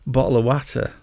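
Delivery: bottle of watter with a short flat a, like "matter"; plain Yorkshire "bottle of watter". Shown as a demonstration. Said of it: "we call it watter".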